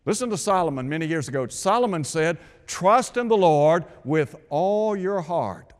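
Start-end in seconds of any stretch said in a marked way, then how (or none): 2.6-5.7 "all" leaned on and stretched in a slow quote; slow down and hit "all" hard; stress on ALL. Retold or imitated. Preacher quoting Solomon to the congregation, stress on "all". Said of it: "A L L".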